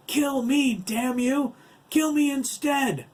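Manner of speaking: high, loud frantic plea; desperate cry. A narrator's reading. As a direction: beg at full voice to take the child's place. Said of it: "his voice forlorn and desperate".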